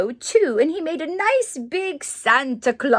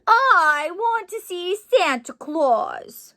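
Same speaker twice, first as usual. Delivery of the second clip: slow, loud, higher tearful wail; crying child; 7 semitones higher, 4 dB louder, slower than usual. Acted. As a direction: wail it like a sobbing toddler. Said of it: "Henry started to cry".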